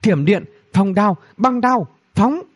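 high, punchy spell calls; acted battle incantation, pitched high; spell casting. A narrator's reading. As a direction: hurl out each spell name. Sorceress calls out attack spells.

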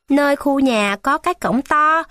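put-on a boy repeating the words back to learn them; eager child memorising directions; child reciting. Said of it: "Ân lẩm nhẩm học cho thuộc".

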